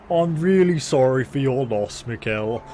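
stiff-upper-lip British politeness, deadpan; emotionless British. Retold or imitated. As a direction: say it like a Brit, feeling nothing. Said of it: "Just showing no emotion whatsoever".

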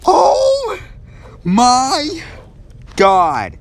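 loud, frantic repeated cries; real frightened yelling; panicked shouting. Real, not acted. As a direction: beg it to go away. Monster still chasing.

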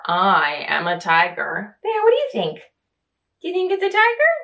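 lively storybook reading, voices rising for questions; reading to children. Acted. Reading I Am Tiger aloud to young children, lively and animated. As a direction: read it like a bedtime picture book to little ones.

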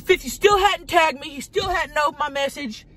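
furious wife ranting about a rapper; angry shout. Retold or imitated. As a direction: yell it like you're fed up again. Retelling her angry outburst.

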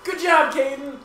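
high, loud congratulation through laughter; laughing cheer. Real, not acted. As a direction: cheer him on, giggling. Cheering brother's grades, laughing.

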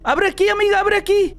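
llamado urgente. Real, not acted. Llama a la amiga del juego. (llamado apremiante, tono más agudo)

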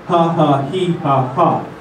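punched ha ha he ha ha from the belly; rhythmic ha he. Shown as a demonstration. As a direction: pulse each ha from the diaphragm. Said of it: "repeat after me".

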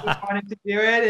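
real laughter mid-sentence; laughing. Real, not acted. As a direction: still laughing as she explains. Jokingly blames brother.

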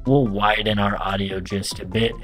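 auto-tuned voice demo, pitch locked and altered; auto-pitch effect. Shown as a demonstration. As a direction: voice run through pitch correction. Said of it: "This is what the M Auto Pitch sounds like turned on".

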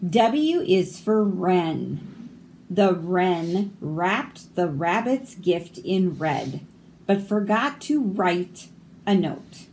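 slow, lilting alphabet-book read-aloud; picture-book reading. Acted. Reader presenting the wren page, picture-book reading. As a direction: space the phrases out for young listeners.

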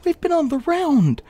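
pleading disbelief; incredulous. Real, not acted. Streamer complains to viewers, high and incredulous.

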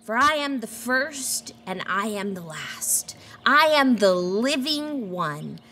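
hushed whisper of Jesus' words. Acted. Whispering Jesus' promise to the frightened John. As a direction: breathe it like a secret promise.

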